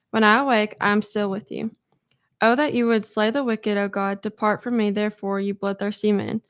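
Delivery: measured Bible reading aloud; a group member reading her verses aloud, measured; scripture reading. Acted. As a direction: read the psalm steadily to the group. Reads psalm aloud to group.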